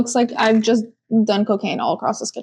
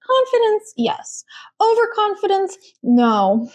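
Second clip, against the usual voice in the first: mock stern lesson; 9 semitones higher, slower than usual. Carlos lecturing her.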